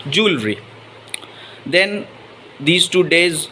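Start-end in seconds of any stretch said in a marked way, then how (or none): 0.1-0.6 "jewelry" said as JOOL-ree; two syllables in "jewelry", jool-ree; correct pronunciation. Shown as a demonstration. Teacher repeating the correct word for viewers, "jewelry" as jool-ree. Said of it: "it should be pronounced".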